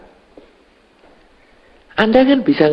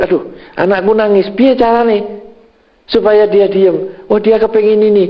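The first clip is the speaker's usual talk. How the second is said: worried parent thinking; 6 semitones higher than usual. Retold or imitated. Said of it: "Anda berpikir".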